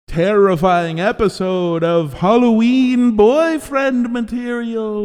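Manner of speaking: slow, drawn-out creepy announcer; spooky host voice. Acted. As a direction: introduce yourself like a horror host. Mock-spooky show intro.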